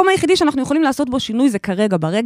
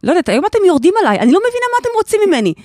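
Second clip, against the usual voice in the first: higher, fast, playful outrage; fast half-laughing protest at being picked on; mock indignant protest; 9 semitones higher, 4 dB louder, faster than usual. Real, not acted. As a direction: throw up your hands at the teasing, quickly. Mock complaint about being teased.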